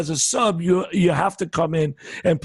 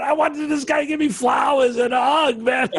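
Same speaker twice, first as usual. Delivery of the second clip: mock shout; 6 semitones higher than usual. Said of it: "Yeah, I said".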